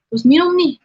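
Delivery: grandfather's order. Retold or imitated. Grandfather orders her to drink the prayer water, loudly.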